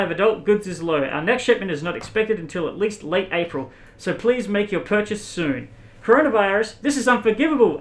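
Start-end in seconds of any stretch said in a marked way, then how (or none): 6.0-7.8 mock angry. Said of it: "angrily tweeted".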